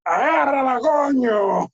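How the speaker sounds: high, drawn-out mock holler; grito imitado. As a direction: holler it like a coach hitting fly balls. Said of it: "Así me gritaba". (grito agudo imitando al coach)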